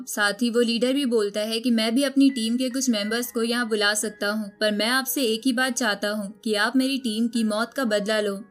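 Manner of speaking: usual speaking voice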